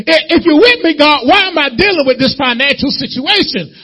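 high, loud pleading to God; desperate prayer. Acted. Believer complaining to God about a doctor report, pleading. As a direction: cry out like a worried believer.

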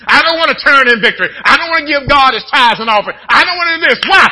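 loud, high, driving sermon delivery, building to shouts; preaching at full force. Acted. Preacher warning the church that stuff rides home with them, in a loud fervent shout. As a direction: hammer it home to the congregation.

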